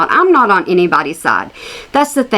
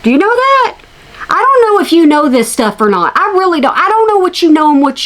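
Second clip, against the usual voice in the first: high taunting voice; 7 semitones higher than usual. Acted. Taunting the creator.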